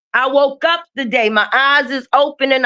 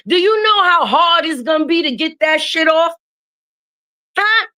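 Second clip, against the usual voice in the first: exasperated rant; 4 semitones higher than usual. Real, not acted. Ranting about babies' double pajamas.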